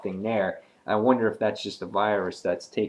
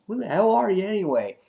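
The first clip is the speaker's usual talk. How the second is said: high, fast mock-indignant demand; retold outraged question, pitched up and quick; indignant challenge; 11 semitones higher, 4 dB louder, faster than usual. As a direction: confront an impostor, acted out. Hero confronts his impostor.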